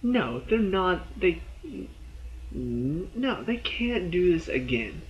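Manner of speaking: slow, high breathless denial; mock dread. Fan dreading Glenn's death, slow breathless plea. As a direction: plead with the show not to do it. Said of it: "my breath is caught in my throat".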